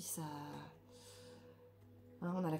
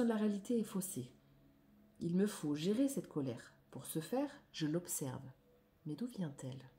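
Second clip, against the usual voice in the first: declamatory reading. Acted. Reads card text aloud.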